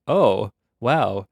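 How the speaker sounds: loud "Oh, wow" then an eager, fast question; mock amazed student. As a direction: play a student suddenly catching on. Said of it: "you might be like".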